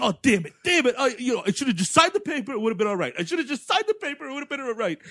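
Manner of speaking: mock despair. LaRusso moaning that he should have signed. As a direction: moan in self-pity.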